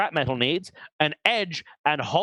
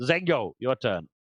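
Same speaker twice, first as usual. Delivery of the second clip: ordinary delivery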